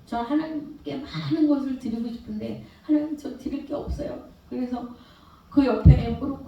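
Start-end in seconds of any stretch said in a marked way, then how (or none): 0.1-4.2 tearful prayer. Retold or imitated. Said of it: "막 울었어요".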